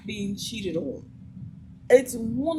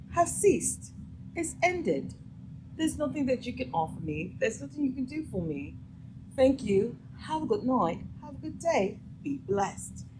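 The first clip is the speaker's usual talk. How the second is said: higher, softer, politely dismissive; dismissive brush-off; 4 semitones higher, 5 dB quieter than usual. Acted. Woman ending things with a pushy man, politely dismissive. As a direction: close the matter in a light high voice.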